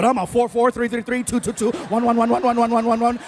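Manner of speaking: cheerful machine-gun count of scores; relieved self-scoring. Retold or imitated. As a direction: rattle the countdown off giddily. Gleefully revising his scores down.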